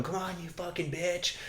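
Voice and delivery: imitated angry driver yelling; a retold road-rage yell; mock yelling. Angry driver yelling at the car ahead. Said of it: "he's yelling at somebody".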